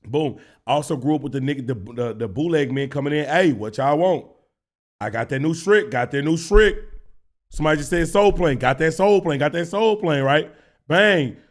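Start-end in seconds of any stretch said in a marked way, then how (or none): 3.2-6.8 imitating a bootleg DVD seller calling out his stock; mock street hawker. The bootleg man pitching DVDs to the salon, a mock hawker call. 8.6-10.2 imitating a bootleg DVD seller calling out his stock; mock street hawker. The bootleg man pitching DVDs to the salon, a mock hawker call.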